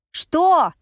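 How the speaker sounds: high, loud shouted question. A narrator's reading. Effie yells out the window at the other car, loud and high. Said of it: "кричу я".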